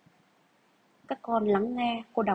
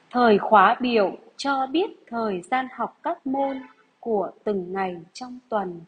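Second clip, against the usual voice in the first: dictation reading. Acted. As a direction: read each phrase out for pupils to write. Teacher rereads dictation sentence.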